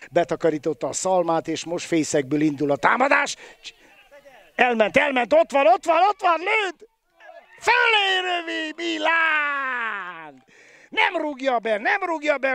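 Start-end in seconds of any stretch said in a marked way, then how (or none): 4.5-12.5 rising, shouted live call; excited sports commentary. Real, not acted. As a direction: build up the attack, then groan at the miss. Attack and missed shot.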